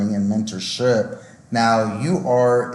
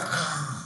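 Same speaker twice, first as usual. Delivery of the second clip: soft, worn-out sigh; exhausted sigh; 12 dB quieter than usual. Retold or imitated. Acting out an exhausted trainee at lights out, exhausted sigh. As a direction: let out a tired breath. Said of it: "You're so exhausted".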